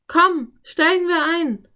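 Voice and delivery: high, loud, keen invitation; eager urging. A narrator's reading. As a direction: urge your companion to climb in. Anne urges Philipp to climb in.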